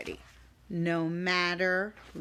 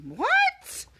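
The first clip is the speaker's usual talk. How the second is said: mock shock; 4 dB louder than usual.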